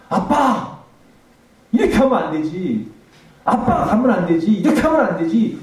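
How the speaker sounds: high, loud anguished cry of a grieving daughter; retold scream. Daughter crying out to her dead father, loud wail. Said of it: "이렇게 소리 지르더라고요".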